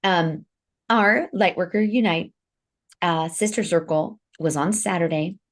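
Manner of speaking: talking through a mouthful of food; chewing while talking. Real, not acted. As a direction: speak while still chewing. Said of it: "So you're gonna hear me eating".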